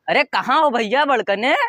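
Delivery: ordinary talk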